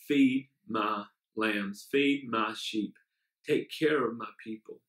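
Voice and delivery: low, slow solemn voice of Jesus; a hushed low voice of Jesus, slowly. Acted. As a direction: speak it like the Lord, slow and low. Jesus's words voiced in sermon.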